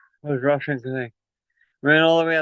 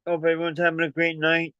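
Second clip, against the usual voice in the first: out of breath; 3 semitones higher than usual. Real, not acted. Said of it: "Sorry, I'm out of breath now".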